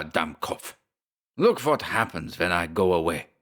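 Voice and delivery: German rage. Acted. Schmersholt whirls on Briggs, furious German accent. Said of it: "The little German whirled on him".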